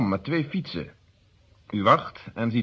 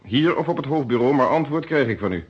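stern pressure; 4 dB louder than usual. Acted. Inspector pressing a hesitant witness.

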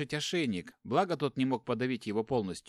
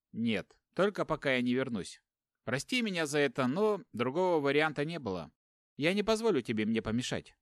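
firm; 2 semitones higher than usual. Acted. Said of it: "твёрдо отчеканил второй".

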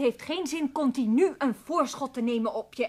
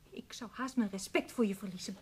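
hissed reproach; 3 semitones lower, 6 dB quieter than usual. Acted. Ruzie, fluisterend verwijt.

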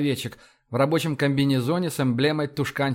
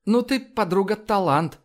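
higher-pitched teasing praise; amused chuckle; 6 semitones higher than usual. A narrator's reading. Iva praising her friend's mimicry, amused. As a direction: tease a friend with amused admiration. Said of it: "усмехнулась Ива".

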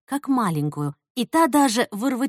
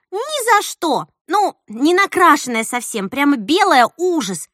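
imitating the actress; 6 semitones higher, 5 dB louder than usual. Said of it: "а она такая".

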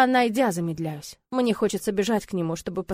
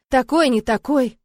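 grumbling mumble; 5 semitones higher, 7 dB louder, slower than usual. A narrator's reading. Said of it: "бубнит Райан".

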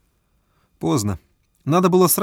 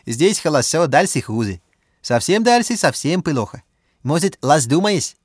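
put-on higher, accented Russian, slowing; Chinese accent Russian; 4 semitones higher, 3 dB louder than usual. A narrator's reading. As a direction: Bao warns in accented Russian. Bao's accented speech.

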